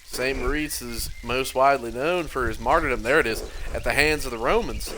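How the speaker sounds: character reading with a southern tinge; mildly southern role voice; kinda southern accent. Acted. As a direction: let a light southern accent slip in. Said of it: "it's still kinda southern".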